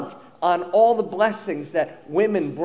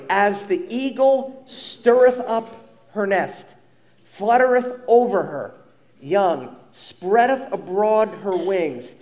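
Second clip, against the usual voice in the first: slow, solemn King James reading; scripture reading; slower than usual. Acted. Pastor reading scripture to the congregation, slow and solemn. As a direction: read the old verses slowly and reverently.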